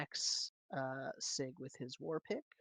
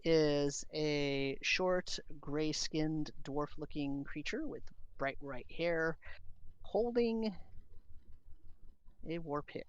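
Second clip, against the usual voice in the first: game master scene setting; 3 dB louder than usual. A narrator's reading. Game master unveils a new enemy to the players, suspenseful narration. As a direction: draw out the arrival of a new creature.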